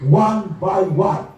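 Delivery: very slow, word by word; slow emphasis. Real, not acted. Preacher stressing that parents should pray for each child in turn. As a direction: spell out one by one slowly. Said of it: "slow emphatic phrase".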